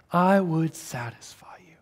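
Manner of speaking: whispered, intimate promise. Acted. Preacher voicing God's promise to his people, a whisper. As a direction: breathe it like a secret gift.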